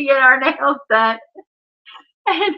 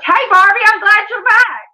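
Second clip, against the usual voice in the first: put-on kid's voice; 8 semitones higher, 7 dB louder than usual. Kid voiced in a story.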